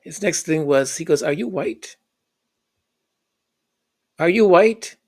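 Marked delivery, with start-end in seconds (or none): 1.2-2.0 higher, rising disbelieving question; incredulous dad. Retold or imitated. 4.2-5.0 higher, louder, rising repeat; louder incredulous dad. Retold or imitated.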